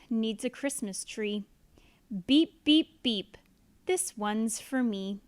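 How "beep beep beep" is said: truck horn. Acted. Blue honks for itself.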